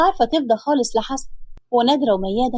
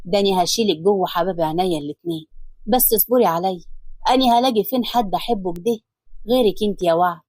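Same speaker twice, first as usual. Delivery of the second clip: lower, tender husband's voice; loving man's voice, lower; lovingly; 5 semitones lower than usual. Acted. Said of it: "وهو بيقول لها بحب".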